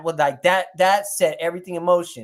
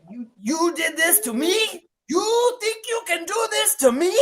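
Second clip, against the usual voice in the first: high, slow, hammed-up crying voice; hammed-up wounded cry; 11 semitones higher, slower than usual. To Tino after the trade, mock-wounded crying. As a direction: wail it like a betrayed lover. Acting his hurt at Tino's betrayal.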